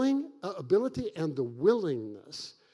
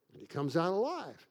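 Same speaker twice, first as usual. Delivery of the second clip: softer, dropping back into quiet wonder; hushed awe; 2 semitones lower, 6 dB quieter than usual. Acted. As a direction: let it land in a near-hush. Repeating the miracle, hushed.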